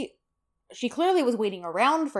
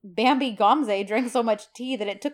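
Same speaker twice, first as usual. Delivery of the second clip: sass with louder emphasis; sassy retelling; 5 dB louder than usual. Retold or imitated. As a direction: lay on a bit of sass, punching the words. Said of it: "I love the sass here".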